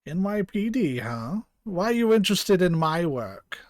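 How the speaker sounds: lightly attempted German accent; Clamp. Doctor questioning the police about their interest, rough German accent. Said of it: "German accent for Clamp".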